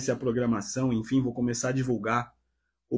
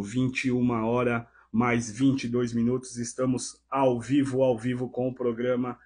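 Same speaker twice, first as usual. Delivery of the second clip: raspy, strained from a sore throat; hoarse voice. Real, not acted. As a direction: speak through a hoarse throat. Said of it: "minha voz hoje tá um pouco rouca".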